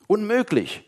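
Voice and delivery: high, disbelieving exclamation; incredulous call. Acted. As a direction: cry out that it can't be true. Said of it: "riefen die anderen".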